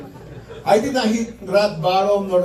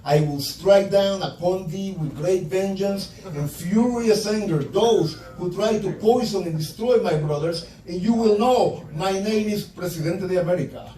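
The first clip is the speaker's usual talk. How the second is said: Samuel L. Jackson sermon. Retold or imitated. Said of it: "a little passage I got memorized".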